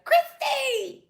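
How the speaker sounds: high, wailing cry of a name; imitating the Chrissy guy. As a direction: sob out the name like the viral clip. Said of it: "The guy that be like".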